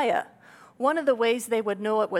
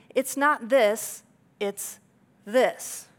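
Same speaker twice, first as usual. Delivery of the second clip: slow "not this", then a pointed "this"; teacher's correction with stressed "this"; contrastive teaching stress; much slower than usual. Shown as a demonstration. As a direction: lean on "not" and "this". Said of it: "Jewish teaching style".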